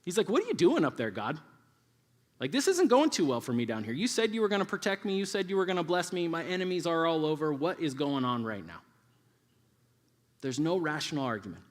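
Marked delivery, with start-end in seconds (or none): 0.3-8.8 mock-angry complaint to the heavens; acted exasperated protest; mad at God. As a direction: gripe upward, higher at first and settling as it goes. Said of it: "He's just mad at him".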